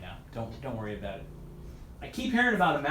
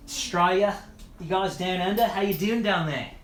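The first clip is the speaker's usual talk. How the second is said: put-on a light, half-done Australian accent, a bit higher and louder; 3 semitones higher, 3 dB louder than usual. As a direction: greet the Aussies in a playful Australian accent. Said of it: "I'm trying to get the accent down".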